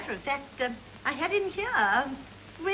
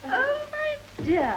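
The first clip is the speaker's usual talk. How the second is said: put-on stagey old movie actor; 8 semitones higher, much slower than usual. Effusive greeting of the daughter.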